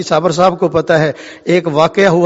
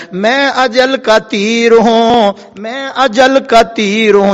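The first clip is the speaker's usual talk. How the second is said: declamatory threat; 5 semitones higher, slower than usual. Acted. Fate declares itself in sermon.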